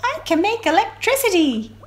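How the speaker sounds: bright high sea-creature voice; electric ray. Acted. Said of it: "an electric ray said".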